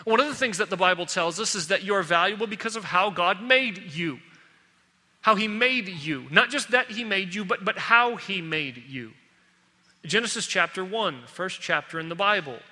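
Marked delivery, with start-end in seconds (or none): 5.2-9.1 HOW stressed, slow and deliberate. Shown as a demonstration. Preacher to the congregation, slow stress on how. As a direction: lean on the word how each time. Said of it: "stress on how".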